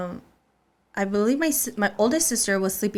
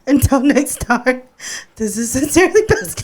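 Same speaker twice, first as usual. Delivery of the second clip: best man voice; 4 semitones higher, 8 dB louder than usual. Acted. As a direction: announce it like a best man's toast. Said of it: "In your best man voice".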